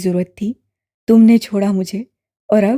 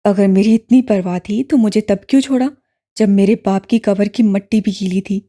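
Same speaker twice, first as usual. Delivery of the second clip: low, louder accusing brother; loud angry question; 4 semitones lower, 3 dB louder than usual. A narrator's reading. Brother accusing sister of leaving after father's death, low and loud. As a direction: demand an answer, furious. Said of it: "بلند آواز سے پوچھ رہا تھا".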